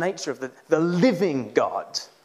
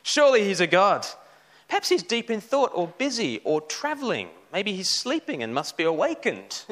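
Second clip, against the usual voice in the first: higher, sarcastic jeering at a sleeping god; mocking taunt; 4 semitones higher than usual. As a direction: poke fun at the prophets, voice pitched up. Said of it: "Elijah began to taunt them".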